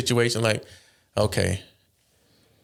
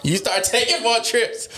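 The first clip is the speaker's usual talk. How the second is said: high-pitched words through helpless laughter; laughing while talking; 11 semitones higher, slower than usual. Real, not acted. Laughing hard while telling his friends the cold-stove joke. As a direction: crack up mid-story, squeaking. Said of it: "You pod, Kenny".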